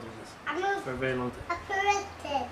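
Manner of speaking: soft, slow, struggling to get it out; hard to say, held back and quiet; struggling to read. Real, not acted. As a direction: let it come out slowly, with difficulty. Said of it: "it's hard for me to read this".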